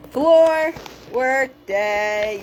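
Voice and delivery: stretched slow and loud, FLOOR leaned on; playful slow announcement; drawn-out sing-song. Shown as a demonstration. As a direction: announce it like a big slow proclamation.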